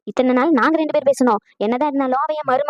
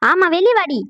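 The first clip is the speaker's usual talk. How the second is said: calling out; 6 semitones higher than usual. Acted. Mother-in-law joining the call to Padma, calling out. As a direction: back up the challenge in a raised pitch. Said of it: "எதுக்கு நீங்க வந்து கத்திக்கிட்டு இருக்கீங்க".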